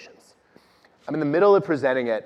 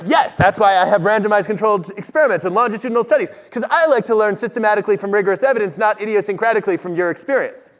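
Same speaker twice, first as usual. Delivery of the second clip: logic bully; 6 semitones higher, 4 dB louder than usual. Retold or imitated. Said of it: "activate my inner logic bully".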